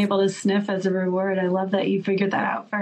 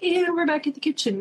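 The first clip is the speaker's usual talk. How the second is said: raised, whiny dog voice; dog's inner voice; 8 semitones higher than usual. Retold or imitated. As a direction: play the dog sniffing out the turkey. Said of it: "she was like".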